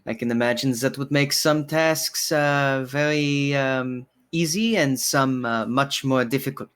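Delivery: lightly voiced barkeeper, hesitant polite questioning; courteous bartender, curious. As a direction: ask delicately as the bartender, with halting pauses. Bartender answers in character.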